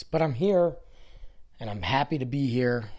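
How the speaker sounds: forced upbeat, trying to sound happy; fake cheerful. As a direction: put on a brave, cheery face. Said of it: "I'm not".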